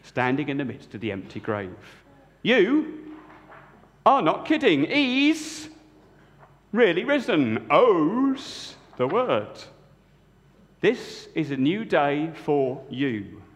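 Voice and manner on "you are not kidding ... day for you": John amazed. Acted. John at the empty tomb tells Peter he's risen. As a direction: marvel aloud at the empty grave. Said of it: "said John".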